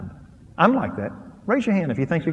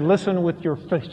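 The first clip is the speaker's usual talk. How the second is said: laughing quote of wife. Retold or imitated. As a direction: laugh while quoting "Listen with your face". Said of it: "my wife grabbed me and said".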